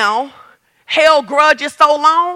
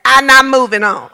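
laughing while mocking the stubborn wife; a laugh through a mock refusal; 3 semitones lower than usual. Preacher laughing as he plays the stubborn wife. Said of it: "You like".

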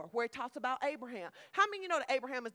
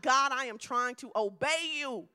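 pleading with God; 5 dB louder than usual. Retold or imitated. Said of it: "I'm like".

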